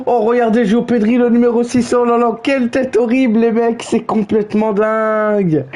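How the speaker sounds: playful mock shock at the screen; mock excitement. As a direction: gush over it in mock disbelief. Mocking a player's face.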